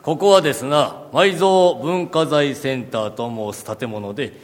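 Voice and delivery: lightly voiced old samurai lord; warlord speech. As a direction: speak like a feudal warlord. (武将言葉)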